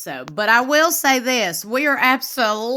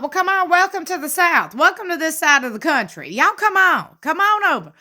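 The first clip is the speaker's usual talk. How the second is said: higher-pitched, mock welcoming call; hearty welcome; 6 semitones higher than usual. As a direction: call them over with an exaggerated welcome. Acted hearty Southern welcome.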